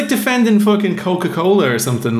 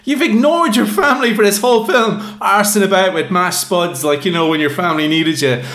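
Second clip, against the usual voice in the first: telling him off; 3 semitones higher than usual. Retold or imitated. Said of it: "You're just like".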